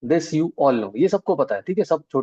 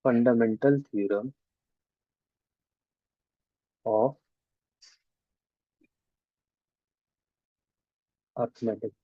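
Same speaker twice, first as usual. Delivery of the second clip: very slow, word by word with long pauses; drawn-out, halting dictation pace; dictating while writing; 3 semitones lower, 4 dB quieter, much slower than usual. Real, not acted. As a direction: spell out the title slowly as you write it. Writes out title while saying it.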